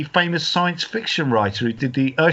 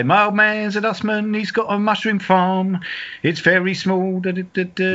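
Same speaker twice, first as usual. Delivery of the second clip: put-on higher-pitched old-time gag delivery; lightly hammed-up vaudeville comic; music-hall comedian; 4 semitones higher than usual. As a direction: do a bit of music-hall patter. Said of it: "nineteen fifties musical theatre comedian".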